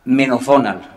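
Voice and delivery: McDonald said as "Menodonal"; local dialect pronunciation. Shown as a demonstration. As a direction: say McDonald the Cádiz way, "meno-DONAL". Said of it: "cruzando la fonética dialectal con la etimología".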